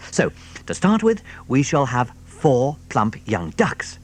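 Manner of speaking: lightly voiced sly fox, measured; careful fox. Mister Fox to Badger, lightly voiced careful planning.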